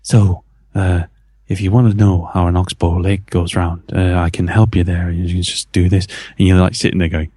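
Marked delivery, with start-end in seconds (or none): 0.0-6.1 lightly voiced Northern Irish teacher; lower, gently imitated Northern Irish helpfulness; soft Northern Irish accent. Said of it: "started to talk really softly".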